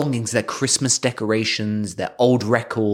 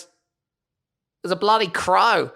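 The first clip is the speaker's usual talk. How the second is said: put-on high, slow proud boy; Norbert voice; 9 semitones higher, slower than usual. Norbert telling mum, high and slow. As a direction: drag it out, pleased with himself. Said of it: "He goes".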